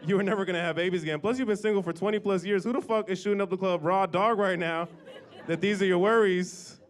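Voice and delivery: exasperated son. Retold or imitated. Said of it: "And I was like".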